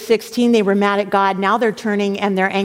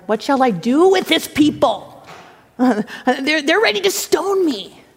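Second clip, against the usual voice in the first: exasperated plea, climbing high at the end; flustered, climbing appeal; Moses crying out; 4 semitones higher than usual. Acted. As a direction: cry out helplessly to the Lord. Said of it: "So Moses cried to the Lord".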